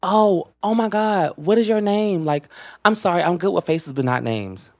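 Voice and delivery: high, slow mock-innocent voice; imitating a girl who claims she forgot his name; mocking her fake apology. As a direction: put on her sugary fake-sorry tone. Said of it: "So she was just like".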